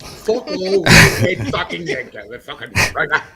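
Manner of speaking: drawn-out hammed-up taunt; mock shout. Taunting a redhead, hammed-up shout.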